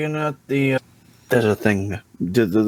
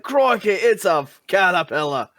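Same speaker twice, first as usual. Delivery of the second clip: raised, playful Aussie exclamation; mock Australian accent; 5 semitones higher than usual. Player's brain spotting a caterpillar, mock Australian accent. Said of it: "brain decided, it's like".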